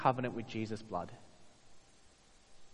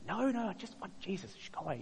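higher, sweetly polite brush-off; polite Christian voice; 7 semitones higher, 5 dB quieter than usual. Pretend. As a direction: wave the waiter away nicely but firmly. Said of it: "in your very polite Christian voice".

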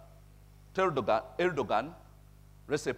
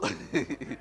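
short chuckle after a joke; amused chuckle. Real, not acted. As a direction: chuckle at your own example. Still amused by his own story.

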